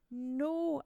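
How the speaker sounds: loud high cry of no; shout. Acted. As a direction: shout it out in despair. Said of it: "Anansi shouted".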